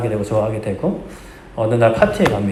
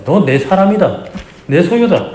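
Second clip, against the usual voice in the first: slow, higher, louder declaration as God; God speaking; 6 semitones higher, 4 dB louder, slower than usual. Acted. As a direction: claim them as God's own. God's voice quoted, emphatic.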